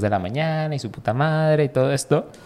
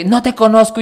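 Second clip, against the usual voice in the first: put-on drunk guy; 9 semitones higher, 5 dB louder than usual. Borracho agresivo.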